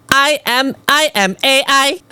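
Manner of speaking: high-pitched Chinese-accented demo. Shown as a demonstration. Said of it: "I do a Chinese accent for you".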